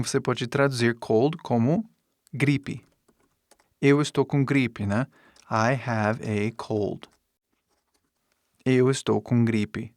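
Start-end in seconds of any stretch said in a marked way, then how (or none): 5.5-7.1 slow, lower teaching delivery; slow model sentence. Shown as a demonstration. Teacher translates gripe for students, slow and low. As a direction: lay out the English slowly for learners.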